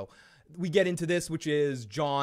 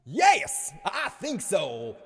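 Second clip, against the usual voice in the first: smug Davos; 4 semitones higher, 3 dB louder, much slower than usual. Acted. Voicing Davos answering.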